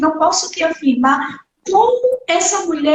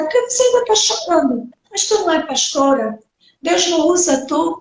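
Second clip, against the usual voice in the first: scolding question; faster than usual. Retold or imitated. People scolding the grieving pastor, quick reproachful jab. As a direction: needle her for still crying.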